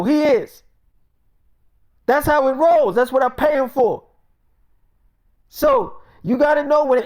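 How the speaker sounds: stern boss lecture. Real, not acted. Boss lecturing employee Jacob about respect, stern and scolding. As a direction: put the employee in his place.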